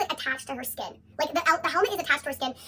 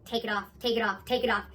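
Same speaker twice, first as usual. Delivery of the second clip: panicked plea; 6 semitones lower, 4 dB quieter than usual. Retold or imitated. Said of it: "she starts to panic".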